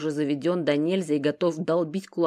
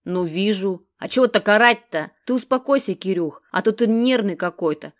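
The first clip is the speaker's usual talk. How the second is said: irritating mumble; 3 semitones higher, 6 dB louder than usual. A narrator's reading. Genych needling his nervous friend, a touch irritating. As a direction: nag him in a lazy, grating tone. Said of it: "раздражающе бубнит Геныч".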